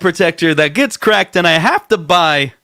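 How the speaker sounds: high put-on cartoon voice; lightly voiced Peter Griffin complaint. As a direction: finish the gag in the cartoon dad voice. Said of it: "Peter Griffin bit continues".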